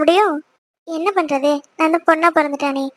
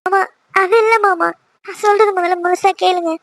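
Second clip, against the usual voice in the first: tearful protest; acted weepy wife; crying. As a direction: plead through tears to be heard out. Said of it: "முதல்ல அழுகுறது நிறுத்து".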